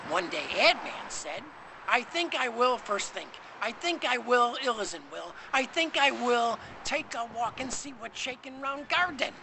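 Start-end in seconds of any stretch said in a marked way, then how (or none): 1.9-9.3 high, loud eager man; bright raised voice for Ad Man; excited Ad Man voice. Acted.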